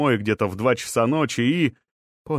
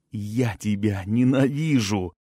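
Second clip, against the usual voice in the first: hissed hatred. A narrator's reading. Mary hisses her hatred at Cornelius, slow and venomous. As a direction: hiss it at him slowly. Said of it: "прошипела Мэри".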